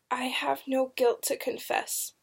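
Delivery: soft, strained whisper; choked whisper. A narrator's reading. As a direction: whisper it as if the throat is tight. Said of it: "came out in a choked whisper".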